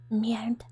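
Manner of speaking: "Merde" with the R caught in the throat; French throat R. Shown as a demonstration. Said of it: "the R is getting stuck in your throat".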